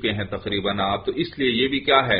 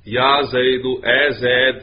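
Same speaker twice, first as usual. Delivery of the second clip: louder, mock call to someone; 5 dB louder, slower than usual. Shown as a demonstration. Teacher showing students how one calls Zaid, calling out. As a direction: call out a name as a demonstration. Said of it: "میں نے کسی کو آواز دی".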